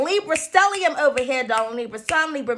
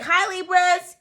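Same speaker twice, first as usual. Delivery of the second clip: loud greeting; 5 semitones higher, 3 dB louder, much slower than usual. Shown as a demonstration. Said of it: "when I'm loud, I'm like".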